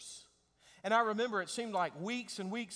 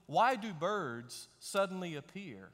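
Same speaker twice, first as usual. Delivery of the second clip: recited song lyric; 3 semitones higher, 5 dB louder than usual. Pretend. Pastor quoting a creepy love lyric, mock-romantic. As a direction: build it louder toward the end.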